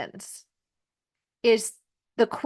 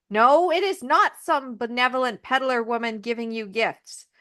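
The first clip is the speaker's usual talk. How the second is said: scolding dwarves; 3 semitones higher than usual. Retold or imitated. Dwarves scolding Snow White.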